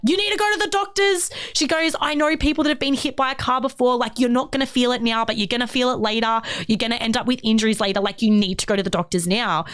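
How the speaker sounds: rapid, high, insistent pleading; freaking-out sister. Retold or imitated. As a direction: voice the panicked sister. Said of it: "She's freaking out".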